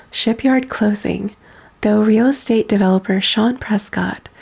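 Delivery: even, measured news-read delivery; newspaper read. Acted. Streamer reading a game newspaper to chat, plain news read. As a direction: read the headlines like a local reporter.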